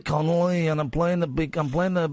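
lightly put-on Scottish comic voice; hint of a Scottish impression; Billy Connolly. Host showing off a comedian impression, light Scottish accent. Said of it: "You sound like you're Scottish now".

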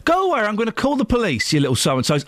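put-on host scolding kids throwing stones, angry high voice; mock telling off.

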